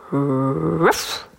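imitated bark, mildly menacing; dog's bark. A narrator's reading. Dog scaring the watchman, imitated bark. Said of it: "einmal laut und gefährlich".

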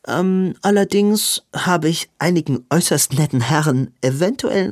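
hesitant sister owning up; sheepish Maud. Acted. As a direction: admit the small fib coyly. Maud's sheepish confession.

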